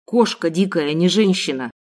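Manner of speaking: low, rough insult; gruff kidnapper. Acted. Kidnapper rubbing his scratched cheek, low gruff sneer. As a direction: sneer it like a thug.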